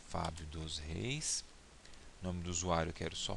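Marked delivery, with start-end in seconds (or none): 0.1-1.4 slow dictation. Real, not acted. Typing his name into a form.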